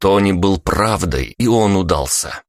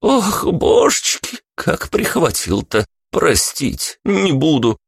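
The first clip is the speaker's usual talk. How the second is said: gasping lament; 12 semitones higher, slower than usual. A narrator's reading. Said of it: "задышала громко, глубоко вдыхая".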